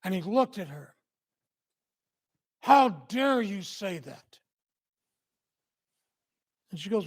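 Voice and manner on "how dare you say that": slow, louder retort, imitating indignation; angry husband. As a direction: act out an offended husband, each word drawn out. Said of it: "he got really angry. You could hear it".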